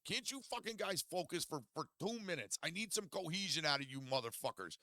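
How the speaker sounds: high, loud mock yell at his friends; a hammed-up scream of rage; retold screaming. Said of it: "screaming at my friends".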